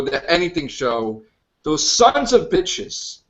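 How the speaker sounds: indignant rant. Real, not acted. Host rants at the attackers.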